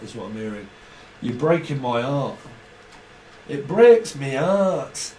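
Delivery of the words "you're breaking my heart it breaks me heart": mock heartbroken plea, dragged out slowly at the end; milk the last line, slow and louder. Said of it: "I can hear someone talking like that".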